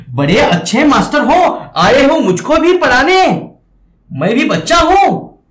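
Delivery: mocking Yamraj. Teacher voicing Yamraj taunting the ghost master, sarcastic. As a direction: sneer that he is no child to be taught. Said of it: "देखिए यमराज".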